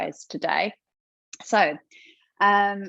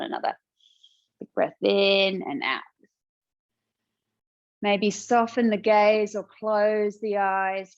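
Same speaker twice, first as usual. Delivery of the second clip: guided relaxation. Real, not acted. Yoga teacher settling a class into seated breathing, guided relaxation. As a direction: talk them into stillness, unhurried, drawing out key words.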